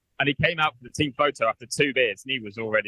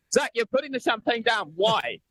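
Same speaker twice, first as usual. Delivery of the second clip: teasing call-out; 9 semitones higher than usual. Real, not acted. Calls out teasingly to interviewee.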